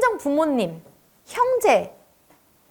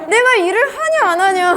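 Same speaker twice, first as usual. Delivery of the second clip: loud, higher laughing comeback; laughing mock retort; 8 semitones higher, 5 dB louder than usual. Wife snapping back at her husband, loud and laughing. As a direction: fire it back half laughing. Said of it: "막 이럴 수도 있을 거예요".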